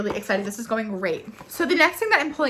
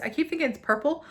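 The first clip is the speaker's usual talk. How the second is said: ordinary talk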